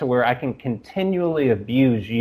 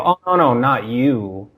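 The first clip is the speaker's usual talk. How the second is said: lightly acted hasty denial; mock backpedaling. Host pretends to reassure an offended co-host, mock backpedaling.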